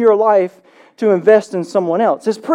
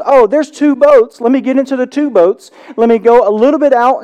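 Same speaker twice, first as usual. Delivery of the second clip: a lightly voiced, raised, casual Jesus; voicing Jesus; 3 semitones higher, 5 dB louder than usual. Pastor voicing Jesus spotting the boats, lightly raised and casual. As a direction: toss it off like it's obvious.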